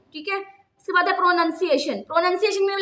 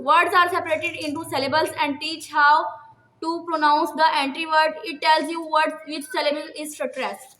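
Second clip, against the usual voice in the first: slow dictation reading; much slower than usual. Shown as a demonstration. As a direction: read each word slowly for students to copy.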